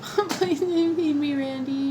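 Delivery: slow, high whiny plea; pleading. Real, not acted. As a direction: drag out the plea. Drawn-out begging.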